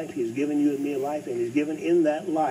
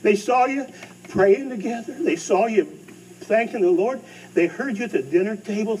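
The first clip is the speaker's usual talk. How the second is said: high, loud, rising preacher call; preaching climax; 8 semitones higher, 3 dB louder than usual. Real, not acted. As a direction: lift the room with it. Preacher builds to a peak.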